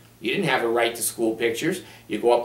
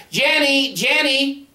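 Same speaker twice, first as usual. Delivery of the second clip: put-on kids calling out; 12 semitones higher, slower than usual. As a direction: call her name across the rink. Stepkids calling at skating rink.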